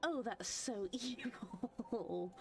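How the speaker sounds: drawn-out laughing oh; laughing disbelief. Real, not acted. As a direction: laugh through the word so. Reacting to game twist.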